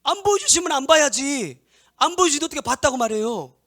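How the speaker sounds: loud, high, impassioned preaching; full-force preaching. Acted. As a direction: preach it out hard to the congregation. (힘껏 외치는 설교)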